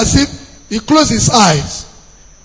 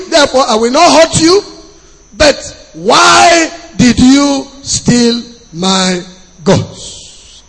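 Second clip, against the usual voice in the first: Laban; 3 semitones higher, slower than usual. Acted. Preacher paraphrases Laban to Jacob.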